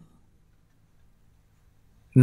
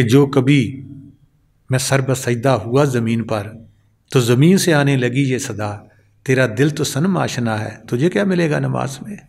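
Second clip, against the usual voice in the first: measured, lower-pitched verse reading; poetry recitation; 4 semitones lower than usual. Acted. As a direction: recite the couplet in deliberate phrases. Recites an Urdu couplet. (ਸ਼ਾਇਰੀ ਦਾ ਪਾਠ)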